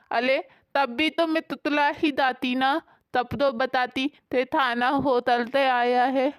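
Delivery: put-on lisping childlike wife. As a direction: lisp every k and s like a little child. Sheetal lisps back.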